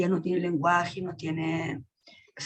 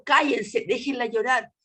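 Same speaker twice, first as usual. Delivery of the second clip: retold angry protest; 4 semitones higher than usual. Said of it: "Yo peleando con el mundo".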